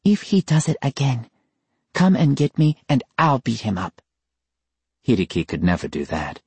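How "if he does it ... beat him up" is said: softened tone. Acted. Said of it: "her tone softened".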